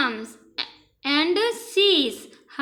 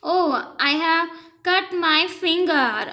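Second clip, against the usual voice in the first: slow read-aloud; 2 semitones higher, much slower than usual. Shown as a demonstration. Princess cuts her finger.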